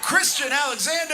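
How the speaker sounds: emcee announcing. Acted. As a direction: call the name out to the room. Host announcing comic.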